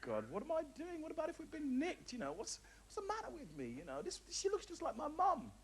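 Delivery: high, hushed panic, thinking to himself; a frightened squeak under his breath; panicked inner voice. Retold or imitated. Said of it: "I thought".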